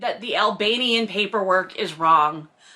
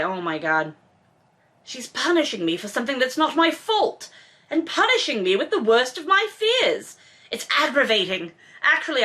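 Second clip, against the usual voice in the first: dramatic novel reading. A narrator's reading. Host reads Maxim's angry inner monologue, with building heat. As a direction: read his angry thoughts with rising heat.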